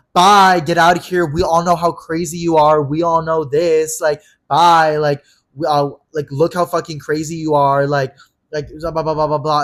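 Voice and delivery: loud, drawn-out jeering send-off; imitated scornful dismissal. Friend telling him everyone knows he's crazy, scornful. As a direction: imitate a friend shouting someone away, stretching the words.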